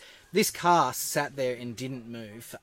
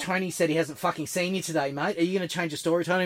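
higher, louder mock interrogation; challenging; 6 semitones higher, 5 dB louder than usual. Copper tests the housemate's alibi, challenging. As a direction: imitate a cop calling out a lie.

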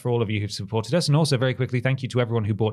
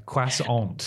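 mock French croissant. Shown as a demonstration. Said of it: "that is what they say".

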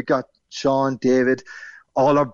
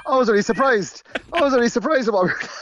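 higher and quick, giggling; laughing; 10 semitones higher, faster than usual. Real, not acted. Caller answering the host's joke, laughing. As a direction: laugh your way through the comeback.

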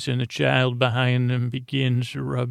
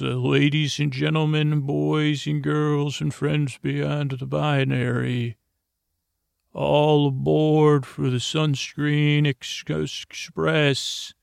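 train conductor announcement; 3 semitones higher than usual. Acted. Uncle calling kids aboard his pretend sunscreen train, mock conductor announcement.

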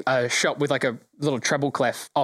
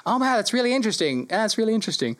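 higher, fast, lightly voiced gnome; gnome customer; 6 semitones higher, faster than usual. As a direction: sound politely impressed by the oboe. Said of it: "This gnome is like".

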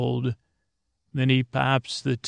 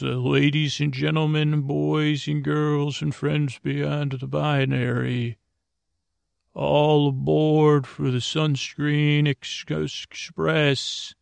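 mock train conductor; 3 semitones higher than usual. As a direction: announce the boarding like a playful conductor. Uncle plays train conductor announcing.

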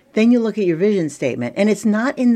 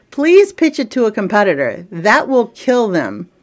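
mock sweet nicely; 4 semitones higher, 5 dB louder than usual. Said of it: "I said it very nicely with a smile on my face".

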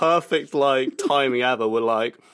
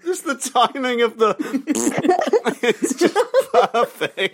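high-pitched, words broken by laughter; real giggling all through; helpless laughter; 10 semitones higher than usual. Real, not acted. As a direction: struggle to speak while in fits. Still in fits over the timing.

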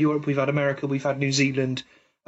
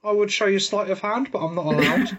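lightly voiced, higher-pitched magician's patter; socially distanced magician; 5 semitones higher than usual. Host improvising a magician greeting a table, lightly put-on patter. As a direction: play a hint of a stage magician introducing himself. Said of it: "Hello, I'm Martin".

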